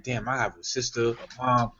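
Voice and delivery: rising disbelief. Retold or imitated. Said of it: "it's like".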